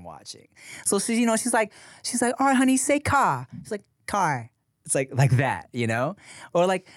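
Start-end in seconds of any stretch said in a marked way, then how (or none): 2.4-3.5 high-pitched British mother; British accent. Retold or imitated. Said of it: "this British woman". 4.1-4.5 put-on toddler's American R in car; American accent. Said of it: "American English accent".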